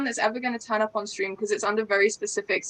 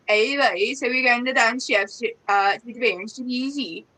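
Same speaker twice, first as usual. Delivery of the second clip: lilting, higher-pitched Orcadian accent; 4 semitones higher than usual. Shown as a demonstration. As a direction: switch into an Orkney Islands lilt. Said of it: "to Orcadian, which is".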